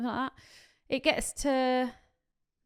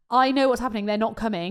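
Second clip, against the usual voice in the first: louder, emphatic retold accusation; insistent confrontation; 5 dB louder than usual. Bride confronting her team about the caterers, insistent. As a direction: push it out like you've seen through them.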